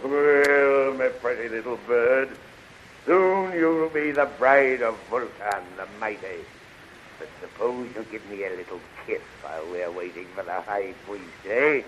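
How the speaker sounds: leering villain. Acted. Villain leers at captive bride.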